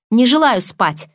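loud, stubborn refusal; defiant declaration. Acted. Narrator refuses sleep defiantly, loudly. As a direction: shout it defiantly at Hale. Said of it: "заявила я и демонстративно".

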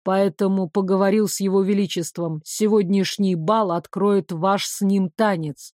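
courteous gentleman announcing an arrangement; a hint of a composed male voice; lightly voiced formal man.

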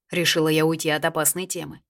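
ordinary delivery

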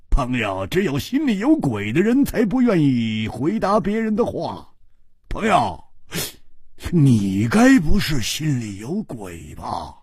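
needling, daring him to answer; provoking taunt. Acted. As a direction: goad him with a taunting question. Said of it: "大声地说".

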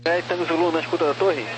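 radio transmission; over a crackly radio; crackly military radio. Real, not acted. Tower calling pilot on radio.

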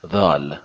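دال opening on a buzzed th, "thaal"; voiced th demo. Shown as a demonstration. Teacher models voiced th, دال as "dhaal". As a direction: say دال with tongue on upper teeth. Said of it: "نوک زبون قسمت دندانهٔ بالا".

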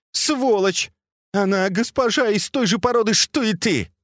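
high-pitched, scornful outburst; angry abuse. A narrator's reading. Disgusted mistress abuses servant.

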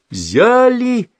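high loud call as she pulls; high effortful shout; shouted heave. A narrator's reading. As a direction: shout to time the pull. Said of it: "крикнула Ульяна".

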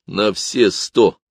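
slow, firm and certain. Acted. Father promises son all will be well, slow and firm. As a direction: reassure with total certainty. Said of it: "твёрдо ответил я".

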